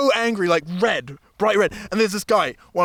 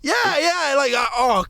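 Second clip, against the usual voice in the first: camp voice; 7 semitones higher than usual. Retold or imitated. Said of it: "I was like".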